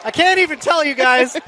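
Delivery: out of breath, just ran upstairs. Real, not acted. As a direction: talk between quick breaths, winded. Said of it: "I'm out of breath 'cause I ran up here".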